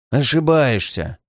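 mock sad. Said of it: "сказал он грустно".

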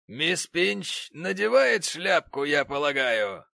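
high, loud, slow sarcasm; haughty gentleman. Acted. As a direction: ask his wife with scorn. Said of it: "сказал джентльмен".

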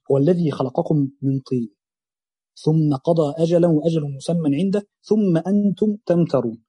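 measured, drawn-out tilawa; تلاوة قرآن بطيئة; slow Quran recitation. Acted. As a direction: recite the verse slowly, stretching the words. Recites a verse.

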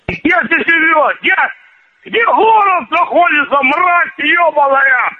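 high-pitched, furious questioning; angry demand. Real, not acted. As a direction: demand it angrily, pitch pushed up. Real angry quarrel on phone.

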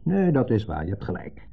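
dry, sarcastic nee. Retold or imitated. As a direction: say it with biting irony. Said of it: "Ik zei het sarcastisch". (sarcastisch, spottend)

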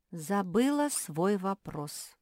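usual speaking voice

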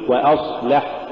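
وأصلح with a thin start before the heavy s; light hamza. Shown as a demonstration. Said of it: "قل".

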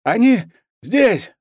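high, loud gasp of a soldier under fire; frightened report over the radio; panicked breathless soldier. A narrator's reading. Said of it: "задыхаясь".

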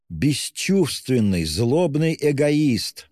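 high, slow, indignant outburst; indignant outcry. A narrator's reading. Sister accusing her departing brother, slow indignant cry. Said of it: "вскрикнула Дуня".

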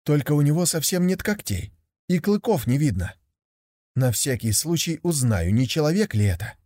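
put-on high, eager young tiger voice; a curious cub wondering aloud; naive young tiger.

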